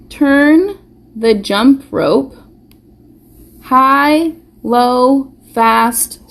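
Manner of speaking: sing-song rhyme read with a slow start; reading a rhyme to kids. Shown as a demonstration. Teacher reading a jump rope rhyme aloud to children. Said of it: "Let's read up top".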